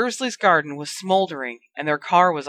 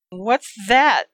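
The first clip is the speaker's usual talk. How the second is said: mild whimper; 4 semitones higher, 3 dB louder than usual. Acted. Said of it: "Dudley whimpered".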